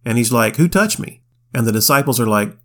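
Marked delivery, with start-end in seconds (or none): 0.5-1.2 sharply raised pitch, puzzled, asking who touched him; a sudden high startled question; surprised question. Retold or imitated. Jesus asks the crowd in surprise who touched him.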